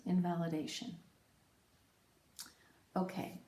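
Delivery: ordinary delivery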